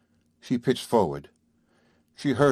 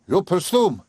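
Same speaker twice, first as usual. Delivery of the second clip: much higher, scornful repeat of presume; mocking echo; 9 semitones higher, 3 dB louder than usual. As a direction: throw her word back with contempt. Father mocks her word.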